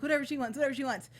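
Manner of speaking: hammed-up rising rant; mock tantrum. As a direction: rage like a spoiled guardian. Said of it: "he's like".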